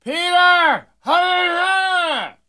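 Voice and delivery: comic Jesus calling down to Peter from the cross; Jesus crying out. Acted. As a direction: stretch out a booming, high hallelujah from the cross. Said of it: "Jesus looks down and says".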